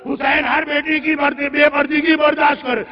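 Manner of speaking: chanted, insistent mourning oratory; impassioned lament preaching. Acted. Preacher mourns the caravan's fate to the congregation, impassioned. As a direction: build the grief in ringing, repeated phrases.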